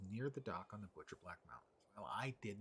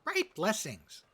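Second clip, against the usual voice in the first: mock Scottish accent; 10 semitones higher, 11 dB louder, much slower than usual. Dwarf character bids farewell.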